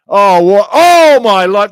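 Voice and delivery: loud, high cry of disbelief; a fan shouts at the screen over a foul; outraged shout. Real, not acted. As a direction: yell at the screen in real shock.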